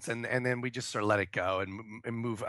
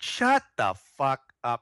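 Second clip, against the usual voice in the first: slow, loud mock outburst; retold fed-up snap; exasperated retort; 5 dB louder, slower than usual. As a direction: cut him off, each word weighted. Retold argument, cutting the man off.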